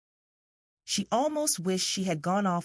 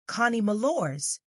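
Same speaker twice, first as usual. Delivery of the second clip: a lightly voiced affected little girl, higher; piping child voice; 5 semitones higher than usual. Little girl shyly giving her name, piping. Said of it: "very affectedly in a piping voice".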